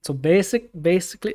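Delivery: half-successful catchphrase impression; tentative, lightly imitated delivery; Sim. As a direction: try out his way of saying basically. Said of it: "I can't do his basically".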